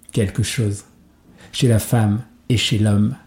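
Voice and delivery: measured spoken-word delivery with long pauses between lines; poetry recitation. Acted. Poet reciting verse about love and poetry to listeners, measured recitation. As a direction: recite it as verse, firm and deliberate, letting each phrase land. Recites a poem over music, then chats.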